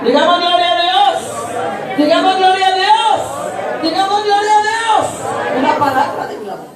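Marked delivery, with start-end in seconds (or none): 0.1-5.6 high, slow preacher's shout with drawn-out words; rallying shout of praise. Real, not acted. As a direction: rouse the congregation, stretching each phrase high. Preacher rallies congregation in praise. (grito de alabanza agudo y prolongado)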